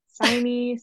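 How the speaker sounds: "Signy" as English "sign" plus "ee"; mispronounced name. Shown as a demonstration. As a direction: misread the name as "SIGH-nee". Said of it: "what names have you been called".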